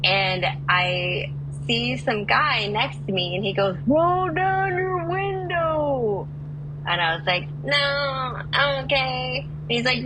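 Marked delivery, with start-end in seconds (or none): 3.9-6.3 high, drawn-out holler car to car; calling out. Retold or imitated. Stranger hollers to a driver in the next car, calling out. 7.6-9.5 raised, higher voice calling across; politely decline, pitched up to carry; calling back. Retold or imitated. Driver answers a stranger in the next car, calling back.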